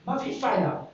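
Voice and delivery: a hint of Egyptian villager dialect; lightly voiced villager giving up. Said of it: "They speak like this".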